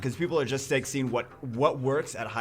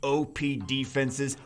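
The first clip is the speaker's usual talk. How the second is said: loud, upbeat announcer pitch over music; infomercial voice; 3 dB louder than usual. Pretend. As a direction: sell it like a TV ad. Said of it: "I get in the announcer voice".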